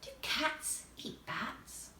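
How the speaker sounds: slow near-whisper, drifting; dreamy. A narrator's reading. Alice half asleep talking to herself, dreamy whisper. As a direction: breathe it out as if nodding off. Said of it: "in a dreamy sort of way".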